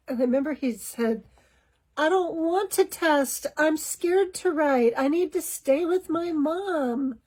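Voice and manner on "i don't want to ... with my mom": put-on higher, slow, scared little-boy voice; small and fearful, clinging to mom; frightened child. Frightened son pleads to stay with his mom, high and slow. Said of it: "eyes just got wide in fright".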